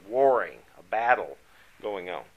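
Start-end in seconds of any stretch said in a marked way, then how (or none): 0.1-0.6 WARRING hit loud, then falling; emphatic. Real, not acted. Preacher stressing a verse's key word to the class, emphatic WARRING. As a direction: lean hard on the word WARRING. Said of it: "I wanna emphasize that word".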